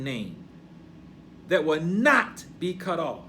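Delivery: declamatory pulpit reading, swelling on key words; scripture reading. Acted. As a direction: read it out as proclamation. Reads scripture aloud with preaching force.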